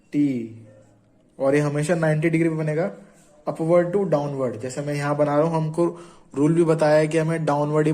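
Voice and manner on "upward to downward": upward to downward drawn out very slowly; slow demonstration. Shown as a demonstration. Teacher slowly says stroke direction to students, very slow. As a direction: spell out each word slowly as you draw. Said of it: "stroke direction demo".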